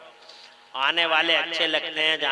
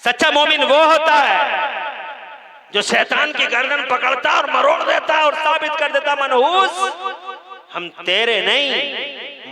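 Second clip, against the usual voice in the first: high, loud preacher's cry; preaching at full force; 10 semitones higher, 6 dB louder than usual. Acted. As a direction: call it out to the whole gathering. (ज़ोरदार तक़रीर की पुकार)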